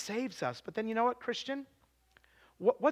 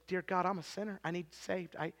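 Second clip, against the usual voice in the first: retold simple prayer; 2 semitones lower, 6 dB quieter than usual. Girl praying to God to save her, retold quiet prayer. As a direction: softly plead with God, voice sinking at the end. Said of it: "she just prayed".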